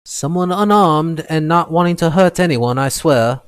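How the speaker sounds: high, loud pleading. Acted. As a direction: beg urgently through the door. Captive pleads through door.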